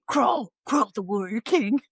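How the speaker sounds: a gravelly warrior chant; odd put-on voice. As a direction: growl it like a wrestling villain. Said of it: "I don't know where this voice came from".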